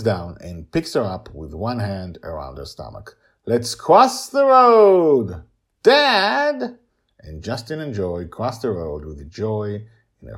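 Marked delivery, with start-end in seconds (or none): 3.5-6.8 put-on high, loud, slow child's cry; excited little girl. Little girl carried across by her father, thrilled high squeal.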